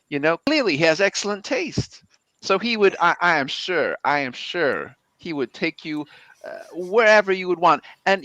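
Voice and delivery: a hint of a southern accent, earnest praise. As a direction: play the southern wingman vouching for C B. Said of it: "how much Brick's accent has changed".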